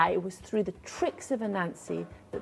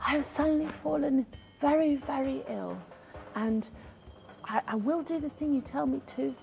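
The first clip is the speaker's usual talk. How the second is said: higher, feeble sick spider voice; faint sick voice; 5 semitones higher than usual. Acted. Anansi faking illness to Tiger, lightly faint. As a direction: fake being too weak to walk. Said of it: "very faint, faint voice".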